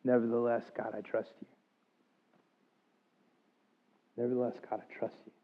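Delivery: very soft, fading to a whisper; grudging quiet trust in God; hesitant surrender. Retold or imitated. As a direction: give in reluctantly, almost breathless. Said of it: "I said it with some hesitancy".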